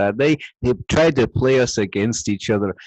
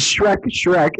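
Donkey calling; 6 semitones higher than usual. Retold or imitated. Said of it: "in all caps, Donkey".

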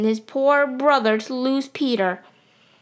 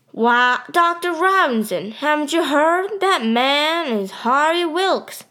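higher, eager voice of a man in the crowd; eager townsman; 5 semitones higher than usual. Acted. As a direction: announce it to the doctor, a bit higher and slower. Someone in the crowd informs doctor.

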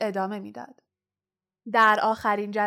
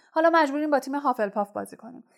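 fast, higher, حالا pushed up bitterly; bitter complaint to the team, rushed and raised; 4 semitones higher, much faster than usual. Acted. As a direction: spit it out in bitter frustration. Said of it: "وود به تلخی گفت".

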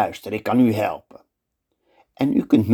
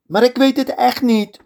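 much higher, louder plea; desperate cry; 4 dB louder than usual. Acted. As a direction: plead for your life. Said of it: "roept Aladdin".

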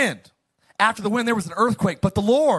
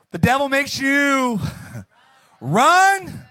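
emphatic; 4 semitones higher, slower than usual. Shown as a demonstration. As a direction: punch run as a preacher's point. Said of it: "devil versus God's voice".

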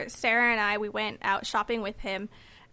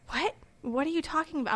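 confused; 4 semitones higher, 5 dB quieter than usual. Retold or imitated. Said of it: "again, get that look".

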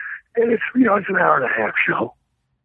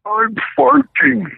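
slow Andre line; 8 semitones higher, much slower than usual. Retold or imitated. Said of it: "he says".

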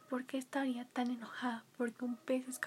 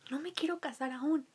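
put-on young princess voice. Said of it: "decía la princesa".

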